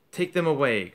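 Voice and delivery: loud command; roaring. Acted. Crouch ordering the Dementor, loud roar. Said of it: "Crouch roared at the Dementor".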